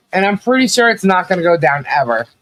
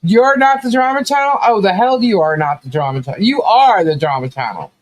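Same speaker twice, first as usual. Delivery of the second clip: higher, mocking disbelief; incredulous retort; 6 semitones higher than usual. Telling Travis off about the drama channel, incredulous and mocking. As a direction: throw his words back at him. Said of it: "I'm like".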